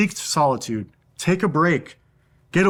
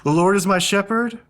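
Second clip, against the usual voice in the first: on the inhale; 5 semitones higher than usual. Shown as a demonstration. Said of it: "you inhale".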